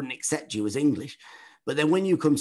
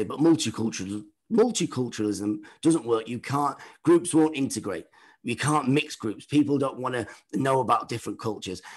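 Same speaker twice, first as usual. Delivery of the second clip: mock sceptic. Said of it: "people will always say".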